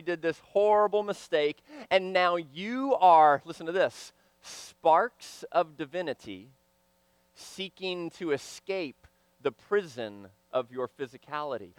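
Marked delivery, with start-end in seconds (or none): 4.4-11.7 dramatic hush. Acted. Preacher to congregation, hushed and fading. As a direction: lower and much softer, fading away.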